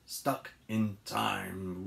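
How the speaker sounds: slow, drawn-out title reading; story title. A narrator's reading. Reading a story title to children, slowly and theatrically. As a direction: announce the chapter title slowly.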